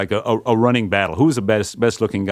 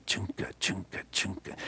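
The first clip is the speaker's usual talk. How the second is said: rhythmic chugging; 10 dB quieter than usual. Retold or imitated. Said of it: "it just kind of went ka-chunka".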